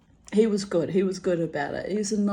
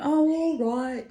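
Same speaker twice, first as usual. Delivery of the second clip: indulgent reply; 9 semitones higher, 4 dB louder than usual. Retold or imitated. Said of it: "I went".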